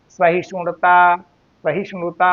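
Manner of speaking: सहिष्णुता slowly as one whole word; unbroken pronunciation. Shown as a demonstration. Teacher answering how it is said, सहिष्णुता slowly unbroken. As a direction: stretch सहिष्णुता smoothly, no split before णुता. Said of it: "खंडन नहीं करके बोलना चाहिए".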